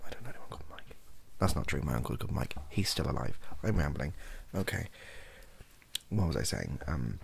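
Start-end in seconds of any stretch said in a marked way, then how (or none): 0.1-1.0 whispered aside. Real, not acted. Aside joke about Mike.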